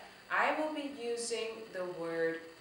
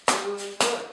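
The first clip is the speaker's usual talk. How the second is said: DU-NUN split into two loud beats; loud, separated beats on "Dunun"; syllables beaten out; 9 dB louder than usual. Shown as a demonstration. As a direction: clap out each syllable of "Dunun". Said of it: "let's try that again with this method".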